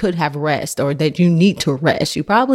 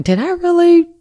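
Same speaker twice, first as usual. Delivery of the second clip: slow, higher mock disbelief; disbelieving question; 4 semitones higher than usual. Mom doubting what she heard, retold slow disbelief. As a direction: question it slowly, as if doubting your ears. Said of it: "And I'm like".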